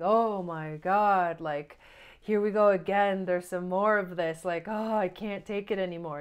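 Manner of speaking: mock overwhelmed wail, loud; exasperated outburst.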